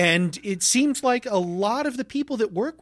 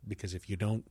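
whispering; 9 semitones lower, 10 dB quieter than usual. Acted. Ominous warning about prom.

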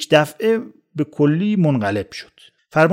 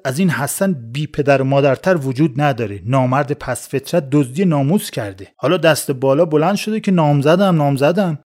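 bellowing. Acted. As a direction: bellow back, hammering نامزدم twice. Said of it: "احمد عربده زد".

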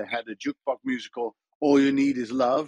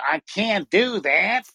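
higher, louder, slow nasal American; mock an unpleasant, nasal American accent; 6 semitones higher, 5 dB louder, slower than usual. Shown as a demonstration.

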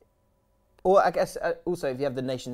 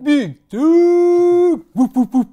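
much higher, louder whooping yell; hammed-up whooping shout; 18 dB louder, much slower than usual. Copying Tanvir's morning office cry to listeners, a loud high whooping yell. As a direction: bellow it like an excited hype man.

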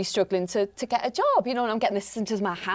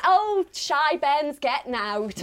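put-on slow, drunk Geordie mum; mild tipsy Geordie accent; 5 semitones higher, slower than usual. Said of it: "And she said".

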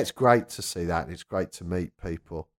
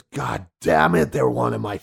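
excited fan; 3 semitones higher, 4 dB louder than usual. Retold or imitated. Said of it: "He goes".

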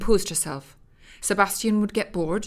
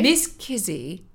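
hard; slower than usual. Acted. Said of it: "Elizabeth's voice was hard".

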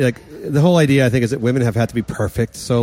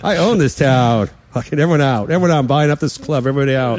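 smug rich braggart; gravelly old tycoon; 3 semitones higher than usual. Pretend. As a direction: crow like you own the place. Lottery winner bragging.

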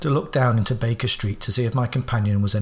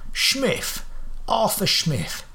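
much higher Cockney voice, Smith said Shmif; Cockney alias; 8 semitones higher, much slower than usual. Acted. Holmes giving a fake name to the guard, Cockney. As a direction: give the name like a London working man.

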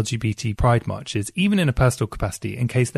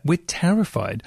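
mock terrified; 6 semitones higher than usual. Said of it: "We're like".

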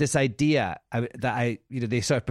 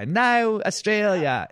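announcer; 8 semitones higher, 4 dB louder, slower than usual. Retold or imitated. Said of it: "I was going".

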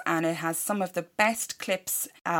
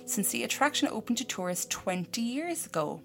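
measured, softer news-report reading; news story read-out; 6 dB quieter than usual. A narrator's reading. Host reading a murder-house news story to co-host, measured report. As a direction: read out a grim news story, quietly and evenly.

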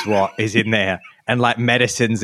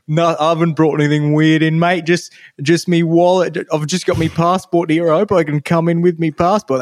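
put-on higher, louder broad Australian accent joking along; broad Aussie; 7 semitones higher, 4 dB louder than usual. Returning traveller joking with the security person, hammed-up broad Australian accent. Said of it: "I go".

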